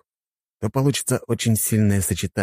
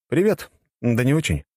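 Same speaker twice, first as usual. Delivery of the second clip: higher, knowing, slowing at the end; knowing hero; 6 semitones higher than usual. Acted. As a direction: drag out the last words knowingly.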